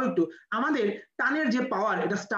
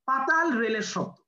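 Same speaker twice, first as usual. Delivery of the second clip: slow and clear; 3 semitones higher, slower than usual. Shown as a demonstration. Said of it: "কি বললাম?".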